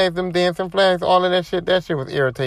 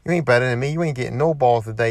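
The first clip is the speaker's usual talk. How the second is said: taunting trash talk; 4 semitones lower than usual. Retold or imitated. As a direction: talk trash under the complaints, low and unbothered. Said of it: "taunting them".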